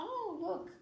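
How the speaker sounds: showing voice. Shown as a demonstration. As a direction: point out the door to a child. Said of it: "Você fala".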